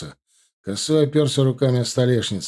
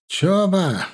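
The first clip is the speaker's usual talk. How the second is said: calling out; 8 semitones higher than usual. Acted. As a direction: shout Чоба! over the crowd. Shouts from the crowd.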